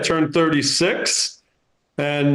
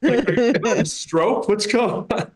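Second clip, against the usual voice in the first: incredulous; 4 semitones higher than usual. Acted. Incredulous rant at Boston mockers.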